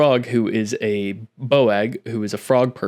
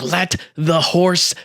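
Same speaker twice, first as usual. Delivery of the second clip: slow, higher, drawn-out cold voice; Grog's cold line; 6 semitones higher, much slower than usual. Acted. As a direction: let it drop slowly, unbothered. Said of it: "Grog's like".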